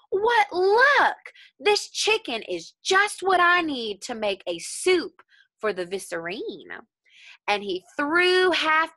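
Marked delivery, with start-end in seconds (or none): 0.1-6.9 a cook thrilled to find his soup; gleeful cook. A narrator's reading. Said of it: "The cook who saw him said".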